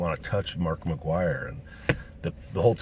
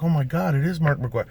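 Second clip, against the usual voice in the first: higher, louder starstruck gasp; excited recognition; 8 semitones higher, 3 dB louder than usual. Retold or imitated. Hotel guests recognizing him, higher and louder. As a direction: gasp like you've spotted a star. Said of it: "all the people are like".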